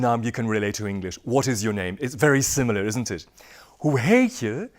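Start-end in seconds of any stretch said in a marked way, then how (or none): 3.8-4.7 a whispered aside of Hoe heet je. Acted. Aside quoting the phrase.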